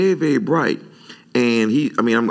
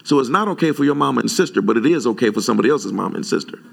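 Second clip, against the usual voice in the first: sarcastic retort; 2 semitones higher, faster than usual. Retold or imitated. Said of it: "I said".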